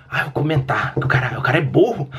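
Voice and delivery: imitating a dim, jeering online critic; mocking commenter. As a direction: play a smug commenter with a mock laugh. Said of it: "a pessoa vai lá".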